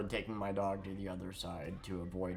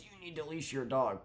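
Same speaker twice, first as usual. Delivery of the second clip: mock scolding; 5 semitones higher than usual. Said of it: "sees a dog off leash and goes".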